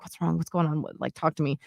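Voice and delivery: put-on softly asking a crying child what's wrong; a hint of a worried mom, hushed; gentle concern. Mother quietly asks her crying daughter, gently hushed.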